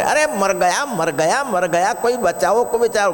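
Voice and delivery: high-pitched, hammed-up panic; mock cries for help. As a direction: play a holy man wailing for rescue. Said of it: "અને બાવો રાડો પાડે". (ગભરાટભરી બૂમોની નકલ)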